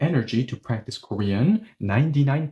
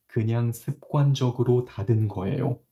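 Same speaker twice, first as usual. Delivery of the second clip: casual habitual tone; much faster than usual. Shown as a demonstration. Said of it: "Hey, I just closed it habitually".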